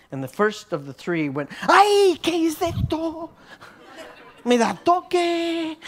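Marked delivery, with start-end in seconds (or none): 1.6-5.8 high, slow, startled Spanish exclamation with a laugh; ay, ¿qué es esto? sorprendido y riendo; startled yelp. Retold or imitated. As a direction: cry out in giddy shock at a sudden tingle. Young man feels God's touch.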